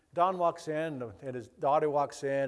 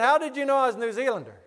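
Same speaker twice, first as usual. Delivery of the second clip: retold astonishment; 8 semitones higher, 5 dB louder than usual. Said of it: "And it floored him".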